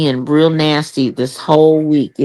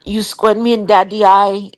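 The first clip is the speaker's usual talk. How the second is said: imitating husband; 4 semitones higher than usual. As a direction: protest like a sulking man. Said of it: "husband voiced in retold story".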